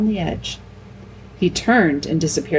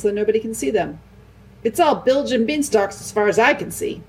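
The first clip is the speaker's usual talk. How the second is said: higher, gruff grumbling dwarf voice; a sceptical dwarf grumbling about lions; grumpy dwarf; 4 semitones higher than usual. Acted.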